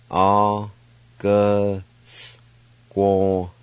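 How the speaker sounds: A, then ge Squaw, split with a pause; teacher sounding out a Cherokee word; syllable by syllable Cherokee. Shown as a demonstration. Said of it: "now I'll pronounce these words".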